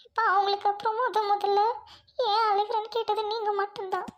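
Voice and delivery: understated crying under the words; tearful confession. Acted. Orphan girl telling stranger nobody ever asked, tearful. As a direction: pour out a lifelong hurt, close to sobbing. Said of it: "ஏன் அழுகுறீங்க?".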